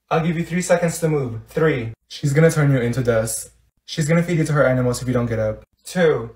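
ordinary delivery

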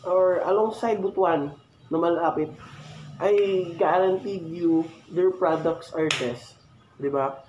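muffled through face mask; speaking inside a helmet. Real, not acted. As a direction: voice behind helmet chin guard. Seen 4: Full-face helmet and face mask worn until removed around 6.6s.

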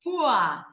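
ua said as u sliding open to a; u-a vowel demo. Shown as a demonstration. Teacher showing the ur ending as ua. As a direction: let ua open into a. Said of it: "Então, é tipo".

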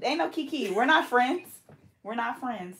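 lifted pitch, playful disowning; mock disowning a friend. Real, not acted. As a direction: toss it off like a dramatic diss.

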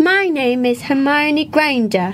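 slow, crisp British accent; show-off British accent. Shown as a demonstration. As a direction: introduce yourself like Hermione with a British accent. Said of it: "แกเก่งในการแบบทำสำเนียง British".

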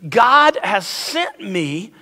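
very slow, deliberate model reading; declaring a statement. Shown as a demonstration. Pastor giving another statement to repeat, slow and deliberate. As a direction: give each word room, to be repeated. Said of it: "We're gonna say another statement".

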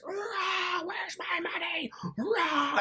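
high-pitched roar, held back in volume; mock screaming. Jeff terrorizing the woman at the desk, mock scream. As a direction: imitate a bully's raging growl without full force. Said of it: "You mean screaming, that, terrorizing that lady".

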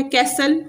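"कैसल" with no t sound; silent T. Shown as a demonstration. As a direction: say "कैसल" as kass-el, t dropped. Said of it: "इसमें भी टी silent है".

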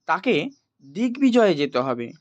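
normal talking voice

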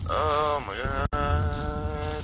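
slow frightened groaning while sneaking through the dark; dread. Real, not acted. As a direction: stretch each word in dread. Creeping in terror.

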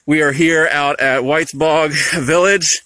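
muffled by a face mask; through a face mask. Real, not acted. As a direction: talk through a cloth mask. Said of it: "We're trying to talk through masks".

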